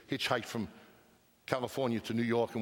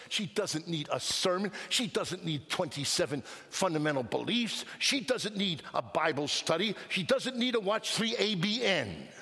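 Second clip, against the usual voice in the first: building preaching; 6 semitones higher than usual. Acted.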